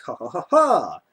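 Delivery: mock evil "ha ha" cackle; maniacal evil laugh. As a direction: imitate a villain's laugh, swooping on the last ha. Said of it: "maniacal, evil fucking laughter".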